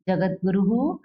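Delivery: जगत गुरु ending in an echoed "hu", guru-hu; visarga as "hu". Shown as a demonstration. Teacher reading the Sanskrit title to pupils, visarga as "hu". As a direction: add "hu" after the last vowel of गुरु. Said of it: "हमने उच्चारण क्या किया?".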